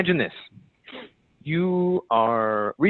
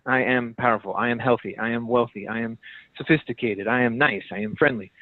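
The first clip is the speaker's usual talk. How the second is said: affirmations; 3 semitones lower than usual. Shown as a demonstration. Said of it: "say ten "I am" statements".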